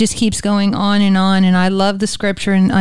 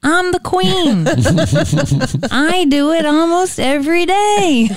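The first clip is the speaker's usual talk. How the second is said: playful laughing confession; 8 semitones higher than usual. Real, not acted. Host joking to guests about messing up, playful laughing. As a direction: laugh it off in a high voice. Playfully admitting she messes up.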